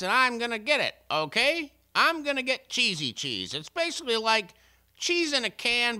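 mock ad pitch. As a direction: sell it like a carnival barker. Mock cheese ad, loud slow pitch.

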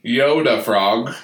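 Yoda frog. Acted. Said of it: "our special guest".

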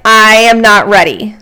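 blurted-out self-doubt; loud doubtful quote. Retold or imitated. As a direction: blurt it out in a panic. Acted doubting entrepreneur quote.

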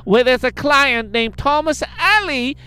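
hammed-up read of a scam letter; reading a scam email. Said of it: "It's broken English, her email".

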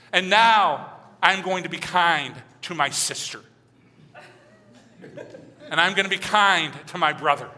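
hammed-up doting child; fantasy grateful child. Pastor voicing ideal kid for his kids, hammed-up gushing. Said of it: "being recorded for my kids later".

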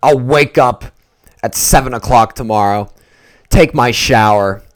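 loud, emphatic indignant rant; worked-up anger. Real, not acted. Fan venting over a possible loss, worked up and mad. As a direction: rant with heavy punches on key words. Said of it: "I will be so mad".

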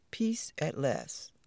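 soft slow whisper of relief. Acted. Mama Spider whispering so the elephants stay asleep. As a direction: breathe it out so no one wakes.

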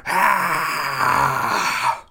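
a high creature cry that isn't really loud; the centipede lets out a mock shriek; a half-hearted monster screech. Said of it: "really loudly".

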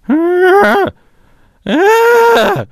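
imitated distant scream. Recreating the noise for friends, a high yelp. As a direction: mimic a faint cry in the night. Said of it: "I heard the same noise".

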